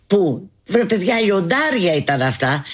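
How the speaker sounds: ordinary talk, nothing marked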